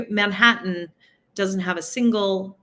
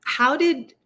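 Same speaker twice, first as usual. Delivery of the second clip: higher, incredulous questioning; sarcastic; 3 semitones higher than usual. Retold or imitated. Questioning free-vaccine believers, incredulous. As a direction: poke holes in the claim. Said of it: "And I'm like".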